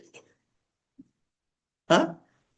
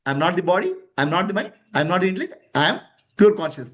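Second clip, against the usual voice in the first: reciting a mantra; 4 semitones lower than usual. Acted. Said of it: "one Maha Mantra".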